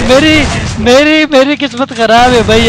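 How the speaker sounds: laughing at own bad luck. Real, not acted.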